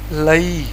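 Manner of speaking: لئی said with a gliding ai, not لے; teacher models the correct لئی. Shown as a demonstration. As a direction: glide the vowel in لئی as lai. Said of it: "لام یا زبر لے نہیں پڑھیں گے".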